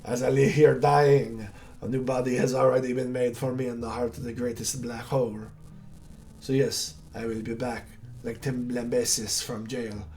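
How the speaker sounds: lightly voiced villain, mocking; a touch of a gloating dying hunter. Dying hunter taunting the hero, lightly voiced villain.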